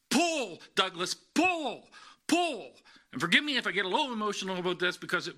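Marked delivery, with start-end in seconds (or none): 0.1-2.7 high, urgent call of pull from the stands; father's shout from the crowd. Retold or imitated. Father cheering his son at tug of war, shouting high. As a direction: holler it like a dad cheering from the sidelines. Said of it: "I hear this voice from the crowd".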